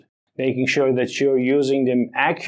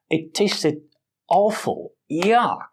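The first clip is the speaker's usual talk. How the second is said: "awful" lifted higher, with a playful "Yuck"; mock disgust; 4 semitones higher, slower than usual. Shown as a demonstration. Teacher acting out bad food with mock disgust. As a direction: act out tasting something nasty. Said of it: "to add even more meaning".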